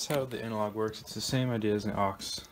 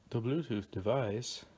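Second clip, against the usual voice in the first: light imitation of a Chinese accent. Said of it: "in, like, a Chinese accent".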